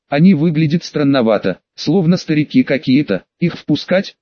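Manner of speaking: innocent. Acted. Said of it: "невинно спросила она".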